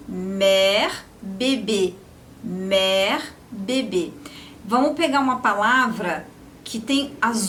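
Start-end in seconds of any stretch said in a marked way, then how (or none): 0.1-4.1 mère open, then bebê closed; open è versus closed é. Shown as a demonstration. Teacher contrasting the two accents. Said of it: "imagina, accent grave, mère".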